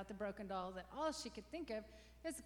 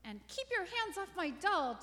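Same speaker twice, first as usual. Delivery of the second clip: higher, louder snappy comeback; sharp retort; 8 semitones higher, 7 dB louder than usual. A narrator's reading. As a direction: bite back at your sister. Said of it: "Janet retorted".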